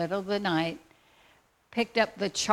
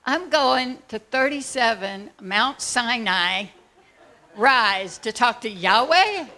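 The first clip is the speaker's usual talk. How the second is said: slow, louder, higher in amazed disbelief; astonished slow question; incredulous; 4 semitones higher, 8 dB louder, slower than usual. Retold or imitated. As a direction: stretch it out, amazed. Incredulous at meeting Yahweh.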